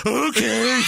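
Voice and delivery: exaggerated slow, high dopey okay. Americans mocking the client's slow-it-down direction, hammed-up slow. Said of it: "he means slow it down".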